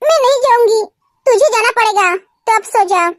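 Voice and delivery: low-pitched, heavy-hearted exchange; subdued bedside talk. Acted. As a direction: drop the pitch and speak soberly. Sister consoles crying sister at night. (उदास, दबी हुई आवाज़)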